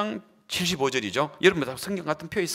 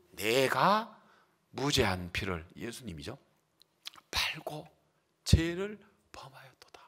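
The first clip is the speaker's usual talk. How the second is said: remorseful confession fading to whisper; 2 semitones lower, 7 dB quieter, slower than usual. Acted. Judas confessing, trailing to whisper.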